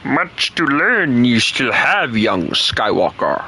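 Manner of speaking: slow, mild Yoda voice; Yoda impression. Streamer playing Yoda to tease a British viewer, slow. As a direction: lean into the Yoda line, slowly. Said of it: "Why did I turn into Yoda?".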